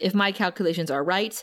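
ordinary talk, nothing marked

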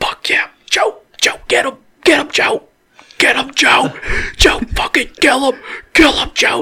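excited whisper-screamed cheering. Speaker reenacts urging Joe on, retelling a whisper-scream. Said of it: "I'm whisper screaming".

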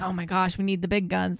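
ordinary talk, nothing marked

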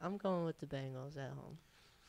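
downcast, whiny, sad, low, subdued voice. Giving a game pick on a sports picks show, sounding sad. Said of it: "Why you sound so sad, bro?".

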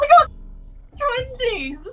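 squealing, excited, very high-pitched. Reacting to rolling two natural twenties: excited, very high-pitched. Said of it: "You're too high pitched".

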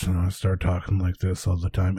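low, soft, growly, grumbling voice. Showing how the voice drops when there is nothing to read: low growly voice. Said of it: "I really start to get a bit low and growly with my voice".

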